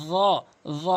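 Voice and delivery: র said as a heavy, buzzing dho; touch tongue tip to teeth for র, as dho. Shown as a demonstration. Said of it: "এভাবে উচ্চারণ করবেন".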